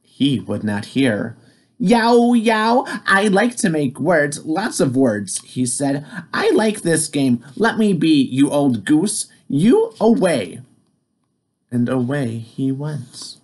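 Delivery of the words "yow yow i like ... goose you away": cheeky firefly. Acted. Firefly's brash reply.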